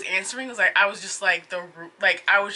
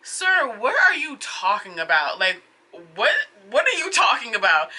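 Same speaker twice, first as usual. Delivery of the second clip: incredulous. Real, not acted. Exasperated at attendant's refusal.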